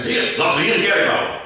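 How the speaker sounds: high, loud eager disciple; eager Peter. Acted. Peter on the mountain with Jesus, eager high call. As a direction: blurt it out like an excited follower. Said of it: "En hij zegt".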